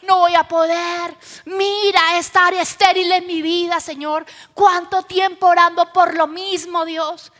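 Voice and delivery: acted, exasperated prayer; frustrated plea. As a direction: complain to God in mock despair. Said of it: "llegamos frustrados a la presencia".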